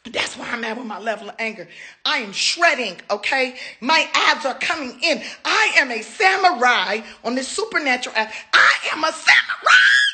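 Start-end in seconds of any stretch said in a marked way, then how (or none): 5.4-10.0 mock samurai boast. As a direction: proclaim it like a proud warrior. Bragging about workout.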